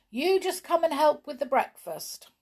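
high, loud bossy order; shouting back. A narrator's reading. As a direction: call out to summon a helper. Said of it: "shouted back Joanna".

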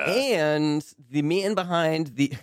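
put-on faintly Russian-accented, slow. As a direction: slip into a bit of Russian accent. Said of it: "I took a little bit of your Russian accent there".

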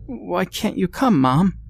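put-on high tearful little boy; child in tears. Son begging his mother to come, tearful child. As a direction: plead as a crying child. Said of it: "he finished in tears".

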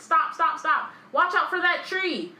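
high, loud panicked cries; panicked yelling. Retold or imitated. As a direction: yell in panic at the tree.

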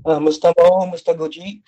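distant, tinny phone audio; sounding far from the mic; on speakerphone. Real, not acted. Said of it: "your audio is a little kinda distant. You sound like you're on speakerphone".

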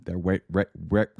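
stuttering restart. Real, not acted. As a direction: trip over the words, restarting. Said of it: "we won't stutter and stammer".

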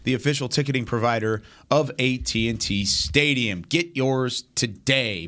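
punchy announcer-style promo read. Acted. Radio host plugging stadium concert tickets to listeners, ad read. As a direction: sell the big show, opening big and drawn out.

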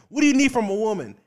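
high, loud, fast host voice; mock host question. The guy in the room asking men, high and loud. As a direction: throw the question out like a pushy host. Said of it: "the guy in the room is like".

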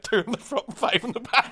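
high, deadpan punchline; punchline delivery. Retold or imitated. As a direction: deliver the joke's answer proudly. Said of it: "And he went".

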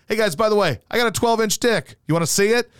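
high, cocky show-off voice; mock bragging giant. Robert Wadlow bragging to guys.

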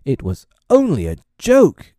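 father roaring in exasperation. A narrator's reading. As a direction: bellow it in self-defence. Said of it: "he roared".

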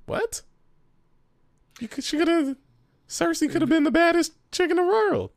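high, indignant what; shocked disbelief. Real, not acted. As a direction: voice shoots way up in outrage. Outraged disbelief.

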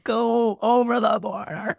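mock hostile jab. Joking at Canadians, mock hostile voice. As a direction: play a mock border snob. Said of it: "I'm like".

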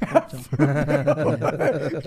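"Corta e tchau" stretched very slowly through laughter; laughing slow repeat; drawn-out laughing. Shown as a demonstration. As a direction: drag out "Corta e tchau" while cracking up.

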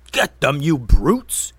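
loud commanding shout; wizard's yell. Acted. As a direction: order the trolls to attack. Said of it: "yelled the wizard".

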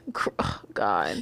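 low, choked voice. Retold or imitated. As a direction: voice breaks with feeling. Overcome by emotion.

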